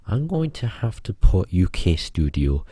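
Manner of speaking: drifting into a mock Scottish accent. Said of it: "I was starting to put on a Scottish accent".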